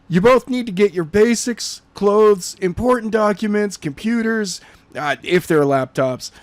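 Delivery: brisk orders to the family; Skylar giving orders. Acted. Skylar telling Jenna's family to pack fast, urgent.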